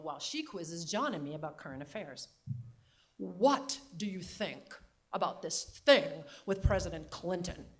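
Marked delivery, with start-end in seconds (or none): 3.2-7.7 slow, louder regal New England question; New England accent. Retold or imitated. Grandmother quizzing granddaughter about Clinton, light New England accent. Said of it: "New England Katharine Hepburn accent".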